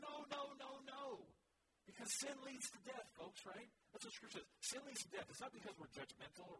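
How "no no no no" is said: emphatic refusal. Retold or imitated. Paul rebuking the tolerant church.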